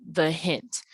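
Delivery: "the hint" with short THE, weight on HINT; short "the", then a longer "hint"; unstressed-stressed pair. Shown as a demonstration. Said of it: "You can tell which syllable is unstressed".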